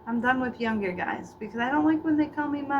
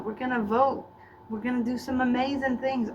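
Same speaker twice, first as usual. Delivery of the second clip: put-on Southern accent. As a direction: do a flirty Southern guy's accent. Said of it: "a Southern guy with an accent".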